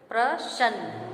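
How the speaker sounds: प्रसन्न slowly split as "pra-shann", with sh; mispronunciation. Shown as a demonstration. Teacher repeating the wrong form for students, slow "sh" mispronunciation. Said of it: "यहाँ उच्चारण श और स में अंतर है".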